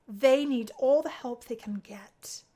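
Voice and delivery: hushed whispered aside; whispered aside to Anne about the mess. Acted. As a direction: whisper it conspiratorially.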